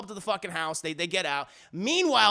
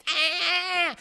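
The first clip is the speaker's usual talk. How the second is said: long high "ah"; sustained acted cry, pitched way up; mock chase scream; 9 semitones higher than usual. Man chasing dwarf around the house, mock scream.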